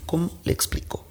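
hushed, unvoiced aside; worried whisper. Friend whispering her worry to herself.

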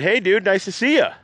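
high-pitched put-on greeting; pretentious talker. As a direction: imitate an acquaintance's pretentious, affected voice. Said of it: "really pretentious, really fast".

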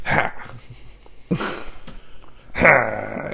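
laughing while wrestling a kitten; short bursts while grappling the cat; holding down a pet. Real, not acted. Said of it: "I'm wrestling with my kitten".

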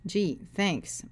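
dry, sarcastic thanks. Acted. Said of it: "I said sarcastically".

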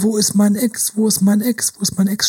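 a hint of a dazed, hypnotized chant; lightly voiced hypnotized lovesick murmur, fading. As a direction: repeat it like a lightly entranced sleepwalker. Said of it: "die hypnotisierte Stimme".

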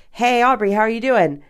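lightly acted acquaintance saying hi; casual greeter. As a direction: chirp a passing hello and how-are-you. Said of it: "and you ask".

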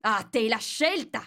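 commanding queen voice; furious queen. A narrator's reading. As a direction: threaten her like a tyrant queen. Queen threatens the duchess.

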